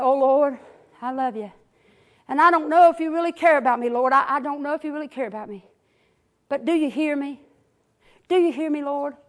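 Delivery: soft, hushed prayer to the Lord; quiet prayer. Retold or imitated. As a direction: speak it softly, just to God. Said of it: "I probably didn't even say it that loud".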